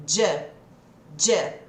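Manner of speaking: "J" as a single blended sound for do you; reduced do you. Shown as a demonstration. Teacher showing how natives merge do you. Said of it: "quando a gente junta o do com you".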